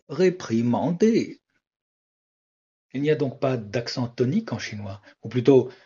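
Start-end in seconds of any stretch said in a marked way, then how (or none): 0.1-1.4 RÉPRIMANDER slow, with a tone on every syllable; sing-song "réprimander": high, rising, dipping, then falling; Chinese tones. Shown as a demonstration. Teacher repeats réprimander as if Chinese, slowly, each syllable toned. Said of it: "appliquer cette façon de prononcer au mot réprimander".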